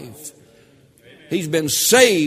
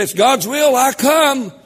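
higher, louder mocking churchgoer voice; 8 semitones higher, 5 dB louder than usual. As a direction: parody a pious excuse, voice pitched up. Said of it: "Folk won't come to this church, say".

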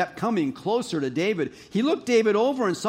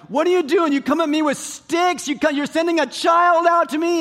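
higher, louder outraged Goliath; offended giant; 10 semitones higher, 6 dB louder than usual. Retold or imitated. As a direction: bellow it like an insulted giant. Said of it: "And Goliath's ticked off".

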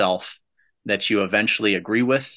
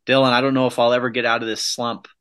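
mock moaning; faster than usual. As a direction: whine it like a defeated friend. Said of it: "by saying".

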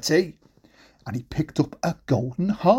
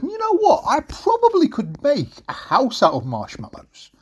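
wolf's bright idea; 8 semitones higher than usual. Acted. Wolf has a bright idea.

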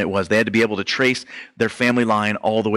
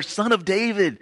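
yelling louder; 9 semitones higher than usual. Retold or imitated. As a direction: yell it out over the crowd. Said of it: "keeps yelling out even louder".

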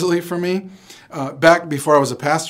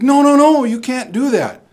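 imitating a coworker, high and loud "no, no, no"; mock alarm, wagging-finger protest; scolding coworker; 11 semitones higher, 7 dB louder than usual. Coworker stops the teacher eating meat, mock high scolding.

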